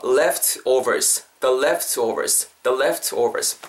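"leftovers" slowly, with clear F and V; careful F and V. Shown as a demonstration. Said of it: "이렇게 발음해 주시면".

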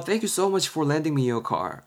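very slow English with careful stress; slow example read. Shown as a demonstration. Teacher reading A's English line to students, slow and careful. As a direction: read it slowly so learners can follow. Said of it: "A가 말하고 있죠".

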